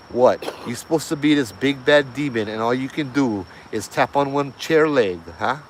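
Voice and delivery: loud, exasperated retold challenge; exasperated mock dare; mock taunt.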